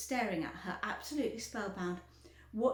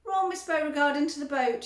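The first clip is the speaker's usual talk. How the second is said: commanding; 5 semitones higher, 9 dB louder than usual. A narrator's reading. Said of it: "he said".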